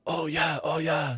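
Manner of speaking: high, light put-on Asian accent; a half-done Asian accent imitation of the boat owner; mock Asian accent. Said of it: "I don't wanna do the accent too hard".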